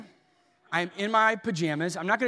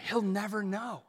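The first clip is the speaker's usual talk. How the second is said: mock tempting whisper; 6 dB quieter than usual. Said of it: "And then they whisper".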